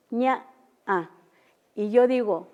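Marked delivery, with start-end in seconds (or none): 0.1-1.1 "ña" con acento de tono; acento tonal. Shown as a demonstration. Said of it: "se oye un tipo como de acento". ("ña" con acento)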